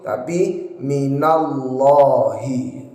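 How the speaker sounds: minallahi with a heavy, thick llah, tongue tip on the palate; correct minallahi. Shown as a demonstration. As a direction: darken the lam in minallahi. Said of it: "Tempelkan ujung lidah kita pada langit-langit".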